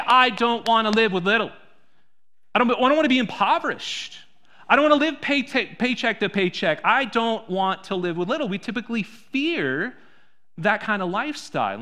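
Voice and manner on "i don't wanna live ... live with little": higher, louder mock complaint about being poor; anxious churchgoer. Preacher voicing a churchgoer who fears poverty, higher and louder. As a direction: voice the fear of living paycheck to paycheck. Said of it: "most of us would say".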